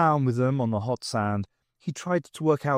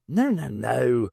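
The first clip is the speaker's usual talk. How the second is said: impatient; slower than usual. Acted. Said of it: "the doctor said impatiently".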